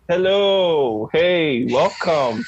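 high, upbeat demo welcome; energetic podcast greeting. Shown as a demonstration. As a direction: greet favorite cousins walking into the room. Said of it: "we start with a lot of energy".

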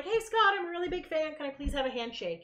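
high, sweet fangirl plea; eager fan voice. Retold or imitated. Fan asking Scott for a handshake, high and sweet. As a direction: ask sweetly, like a starstruck fan. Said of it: "Lydia's like".

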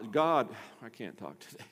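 ordinary delivery

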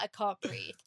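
mock breathless complaint through a laugh; laughing gasp. Retelling her own run, laughing through a mock breathless complaint. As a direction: laugh while pretending you can't breathe.

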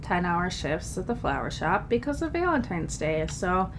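stuffy nose from a cold; nasally voice. Real, not acted. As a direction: talk with a blocked nose. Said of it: "Sorry about my nasally voice".

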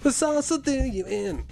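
high, slow spooky warning; mock ominous voice. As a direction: intone it like a doom prophet. Spooky echo of line.

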